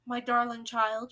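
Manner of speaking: slow, wondering words; slowly. Acted. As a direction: let each word land slowly. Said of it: "she said slowly".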